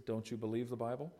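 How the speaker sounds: mildly calm, softened question; understated calm retelling of a wife's question. Retold or imitated. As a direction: ask it gently, without any push. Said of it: "she just calmly says".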